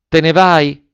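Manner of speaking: alzando la voce, sorpresa. A narrator's reading. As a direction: una domanda sorpresa e alta. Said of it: "con sorpresa". (chiedilo con sorpresa)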